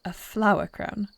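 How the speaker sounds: surprised giggle, rising; delighted laugh. Acted. Queen charmed by the flower crown, laughing. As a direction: laugh in happy disbelief.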